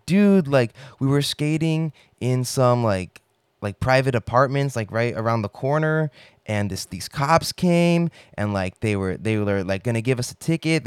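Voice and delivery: high, loud hurried story of the chase; breathless frantic retelling. Retold or imitated. Friend hyping a fake chase to the driver, high and urgent. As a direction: sell the panic to the driver.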